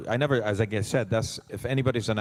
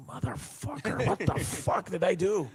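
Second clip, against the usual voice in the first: mock pained; 9 semitones higher, slower than usual. After scraping knee in stunts.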